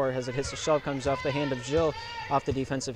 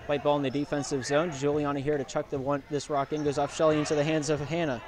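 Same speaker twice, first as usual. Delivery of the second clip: out of breath. Real, not acted. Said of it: "I'm out of breath".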